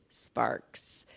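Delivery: whispered under the breath. Real, not acted. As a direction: drop to a whisper on sparks. Admits no sparks.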